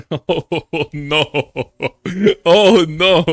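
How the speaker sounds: real loud dismay. Real, not acted. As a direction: yelp it as if the mistake just landed. Reacting to a terrible mistake.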